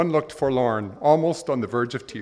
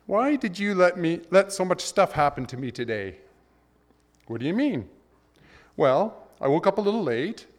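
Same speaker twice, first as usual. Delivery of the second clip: high aggrieved voice, words tumbling; complaining man; 6 semitones higher than usual. Retold or imitated. Man whining to God about his bad day. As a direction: pour out the grievance.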